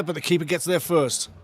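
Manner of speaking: ordinary talk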